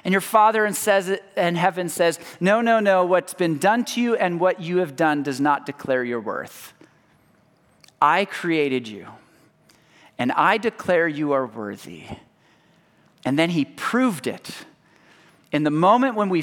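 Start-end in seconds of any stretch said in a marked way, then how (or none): 2.4-12.1 gentle divine reply. Acted. God's voice answering.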